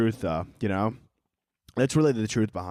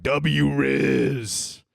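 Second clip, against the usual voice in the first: drawn-out mock cheer; mock hype bystanders; 2 semitones higher than usual. Onlookers hyping a guy talking to a girl, mocking. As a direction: crow it like an impressed onlooker. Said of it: "they're like".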